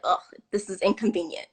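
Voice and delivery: fast, whispered grumble to herself; whispered annoyance. Retold or imitated. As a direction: mutter it like a fed-up shopper stuck in line. Annoyed inner thought, quoted.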